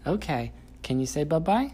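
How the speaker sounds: high, loud sing-song parent voice. Real, not acted. Parent talking to toddler.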